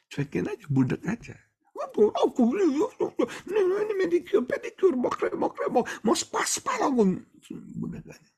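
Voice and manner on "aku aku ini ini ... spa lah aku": very high whiny put-on wife voice. Preacher mimicking a whiny wife demanding manicure and spa, very high. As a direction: whine like a pampered wife wanting a spa.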